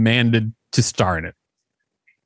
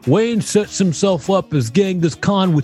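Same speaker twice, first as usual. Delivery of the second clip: put-on raised, sing-song old-timey reviewer; hammy newsreel critic; 6 semitones higher than usual. Reading a glowing old review to her co-host, hammy sing-song. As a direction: ham up the gushing review like a fifties newsreel.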